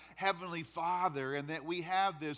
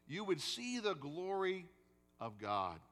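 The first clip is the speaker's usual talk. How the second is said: 1 voicing Jesus; 5 semitones higher than usual. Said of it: "Hear the exact words".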